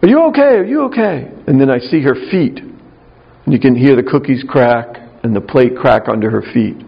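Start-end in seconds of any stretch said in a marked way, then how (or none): 0.0-1.3 much higher, alarmed asking; frantic mom checking on her boy; mother rushing in, frightened for her son; worried mother. Retold or imitated. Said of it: "And she says".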